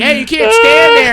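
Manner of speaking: high, loud telling-off; imitated shouted order. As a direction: call out like staff ordering someone away. Worker shouting at the man.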